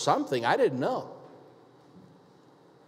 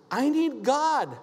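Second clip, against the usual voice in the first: tearful plea; 9 semitones higher, slower than usual. Retold or imitated. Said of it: "she just started crying like that".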